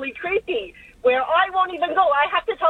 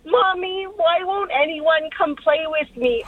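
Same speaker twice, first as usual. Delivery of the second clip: put-on eerie ghost child. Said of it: "a creepy little girl's voice that comes out of it saying".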